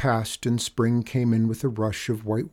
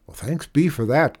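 cried out; 5 semitones higher, 5 dB louder than usual. Acted. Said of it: "cried another speaker".

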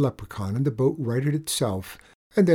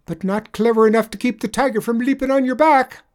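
higher, louder sly Irish voice; sly leprechaun; 11 semitones higher, 7 dB louder than usual. Acted. Leprechaun tricking the tradesman, sly higher voice. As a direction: wheedle him into looking away.

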